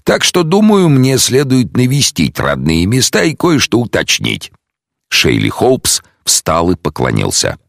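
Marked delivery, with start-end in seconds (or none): 0.0-4.5 detective, a touch higher and brighter. Acted. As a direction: voice the calm detective, lifted a little. Detective explains plan.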